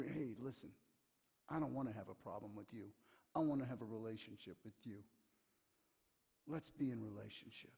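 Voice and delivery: low, soft, quick reassurance; gentle appeal. Retold or imitated. God offering relationship to his people, in gentle appeal. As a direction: speak softly as if making peace. God reaching out after anger.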